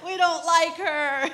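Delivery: slow, half laughing, half crying; laughing through tears. Retold or imitated. Mom joking to her crying baby about the nurse, laughing through tears. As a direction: giggle while tearing up.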